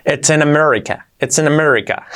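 it's in America in English-speaker accent; guiri accent. Shown as a demonstration. Teacher modelling for learners, guiri English accent. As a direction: play the foreigner with an English R accent. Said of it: "nos hacemos un poco así los guiris".

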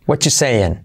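"What you saying" with no "are"; most reduced form. Shown as a demonstration. Teacher ends list of forms, casual "whatchu saying". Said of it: "Bueno, cuatro, mira".

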